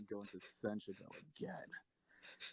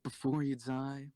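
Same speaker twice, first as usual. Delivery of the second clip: slow threat; 2 semitones higher, 7 dB louder than usual. Acted. Captor threatening execution.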